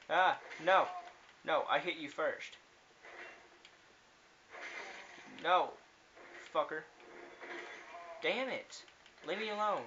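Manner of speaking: raging gamer. Real, not acted. Raging at enemies mid-fight.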